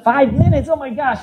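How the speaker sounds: Five minutes repeated in mild alarm; surprised. Real, not acted.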